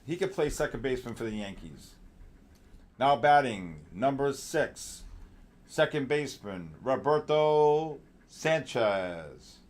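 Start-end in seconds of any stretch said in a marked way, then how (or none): 3.0-9.6 slow PA announcer introducing the batter; ballpark announcer. Pretend. Host introducing a trader like a batter, slow ballpark announcer. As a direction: draw out the name like the stadium PA. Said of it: "I got a good announcing voice".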